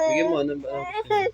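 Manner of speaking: fast, high sobbing words; crying. Real, not acted. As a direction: sob it out quickly. Crying child being consoled.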